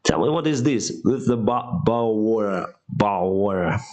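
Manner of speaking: mock British accent with clipped bottle water; lightly imitating a British speaker. Imitating a British guy asking for a bottle of water in a British accent. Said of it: "The British accent".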